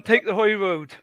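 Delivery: comic go at Scottish; Scottish accent. Shown as a demonstration. Recalls a Scottish soap for friends, Scottish accent. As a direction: put on a Scottish accent for the title. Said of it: "accent to the Scottish accent was".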